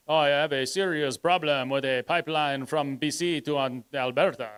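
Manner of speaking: a hint of a French accent; lightly put-on French Canadian accent. Quoting Blanchette on the pipeline, faint French accent. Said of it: "I don't know if that was a French accent".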